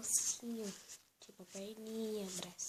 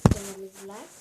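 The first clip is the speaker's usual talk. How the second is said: "Então, vamos lá" much louder, rising; 11 dB louder, faster than usual. Real, not acted. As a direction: call out "Então, vamos lá" brightly. Mesmo texto repetido. ("Então, vamos lá" bem alto, subindo)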